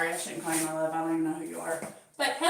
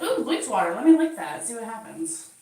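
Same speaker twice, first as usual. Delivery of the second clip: voicing the curious cat; 6 dB louder than usual. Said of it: "he's like".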